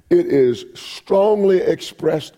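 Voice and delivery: "strongly" drawn out and punched; slow, weighty stress on "strongly"; emphatic. Shown as a demonstration. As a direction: lean hard into "strongly expressed". Preacher explaining what emphatic means.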